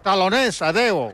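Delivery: sign-off in a Galician accent; Galician-accented goodbye. Shown as a demonstration. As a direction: say the farewell with a Galician lilt. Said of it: "Con acento gallego".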